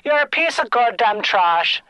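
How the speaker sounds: lightly voiced scolding Irish woman; Quibby O'Shane. Old Irish caller calling a Beatle trash, scolding. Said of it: "from an old Irish woman named Quibby".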